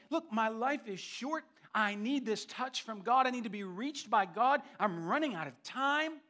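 retold plea with a touch of urgency; voicing Job's mild desperation; desperate. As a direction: press the plea as a man in need. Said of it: "There's desperation in his voice".

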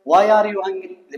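each word slow and clear; slow, careful English read to pupils; slow model reading. Shown as a demonstration. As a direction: say it slowly for the class. Teacher models English question slowly.

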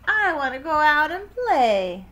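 high, loud, eager protest; child crying out. A narrator's reading. Froggy tells mother he wants to play, crying out. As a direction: plead loudly like an eager kid. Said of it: "cried Froggy".

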